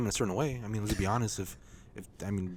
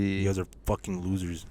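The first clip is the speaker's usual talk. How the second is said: mock insult; 3 semitones lower, 4 dB quieter than usual. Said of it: "I'm just kidding".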